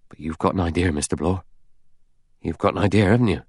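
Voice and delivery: lightly probing, knowing question; shrewd. Acted. Rogers sounding out Blore, shrewdly. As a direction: probe him with a touch of cunning. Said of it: "Rogers said shrewdly".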